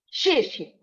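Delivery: XIE XIE with an abrupt drop in pitch; abrupt falling tone. Shown as a demonstration. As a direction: let XIE fall sharply. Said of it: "That's an abrupt falling tone".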